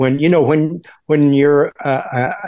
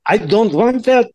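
put-on slow, high Eastern European accent, W's as V's; deliberate Eastern European accent, haltingly phrased; 4 semitones higher, much slower than usual. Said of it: "I was using this kind of accent".

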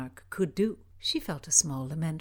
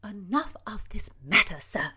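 stern interjection. Acted. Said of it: "interjected Mildred".

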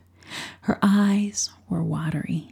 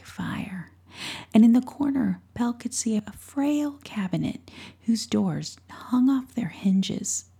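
whispered story; 3 semitones higher than usual. A narrator's reading. Narrator whispering a bedtime tale to a listener. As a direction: hush it like a secret story at night.

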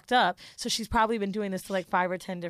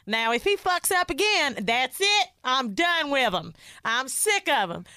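mock Angela rant; 3 semitones higher, slower than usual. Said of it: "She's like".

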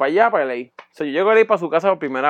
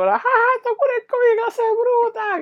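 high, sneering sarcastic voice; mock her claim in a high sarcastic tone. Mocking the vegan's covid cure, high sarcasm. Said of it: "Y yo".

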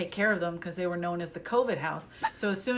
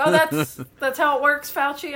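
loud, higher sarcastic retort; mock impressed sarcasm; 7 semitones higher, 8 dB louder than usual. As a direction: needle the know-it-all, loudly. Sarcastic retort to amateur doctors.

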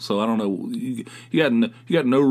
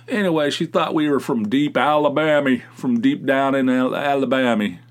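mock Alabama accent; 4 semitones higher, 4 dB louder than usual. Mocks being taken for deep Southerners.

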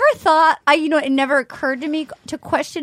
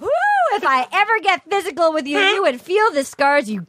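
Kenny impression; 4 semitones higher than usual. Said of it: "Best impression of Kenny I've ever heard".

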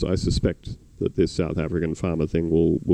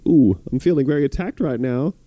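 higher, louder mock wounded tone; joking hurt friend; 8 semitones higher, 3 dB louder than usual. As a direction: play it as fake offense. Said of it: "in a joking way".

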